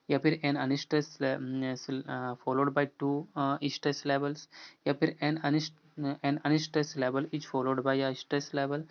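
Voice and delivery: slow, careful reading of each English option. Shown as a demonstration. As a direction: read the choices out for students to follow. Reads answer options slowly.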